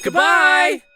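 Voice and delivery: high, loud goodbye shout; students calling out. Acted. Students rushing out the door, a loud happy goodbye. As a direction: call it across the room. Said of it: "the students called".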